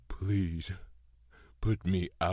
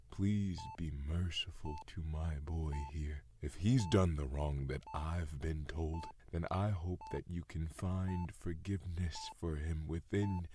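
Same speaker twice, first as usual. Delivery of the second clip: hushed prayer; 5 dB quieter than usual. Acted. Father prays quietly over dying son.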